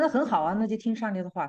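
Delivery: high, loud, curt and dismissive; cold brisk reply. Retold or imitated. Sister on the phone brushing off a crying woman, curt and loud. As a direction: snap back the answer and end it. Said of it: "会觉得她非常冷酷".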